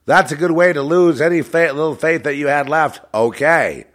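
high, loud insistence; emphatic outburst. Real, not acted. Driving home how begging kills faith, loud insistence. Third, strongest take of the remark.

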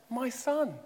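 gentle "My son"; tender voice. Retold or imitated. Father persuading his angry elder son, tender. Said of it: "in a tender voice".

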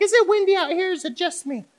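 high fussy mock mom. Pastor imitates mom fretting about the temperature, high mock voice. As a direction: squeak out mom's fretting questions.

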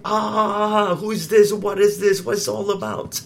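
a hint of panicked disciples, voice lifted; mild alarmed shout; crying out in alarm. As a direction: cry out in fright, not full force. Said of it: "They cried out like".

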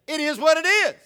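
loud, high mock Spanish punchline. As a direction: burst out in exaggerated fake Spanish. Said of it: "in Spanish, if someone said".

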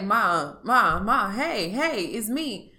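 anxious daughter calling out to her upset mother; calling out to mom. Retold or imitated. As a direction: call her name to get her attention, then soften.

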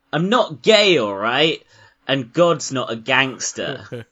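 high, loud indignant protest. Retold or imitated. Film character insisting to another man, mock indignant. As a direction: protest it hotly, pitched well up. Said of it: "like, a really indignant".

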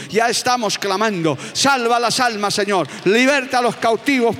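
full-force sermon voice; fervent preaching. Acted. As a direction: stir up the congregation.

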